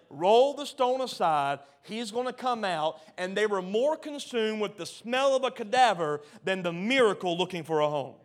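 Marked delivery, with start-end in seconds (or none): 0.1-3.0 mock-emphatic command. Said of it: "Jesus just said".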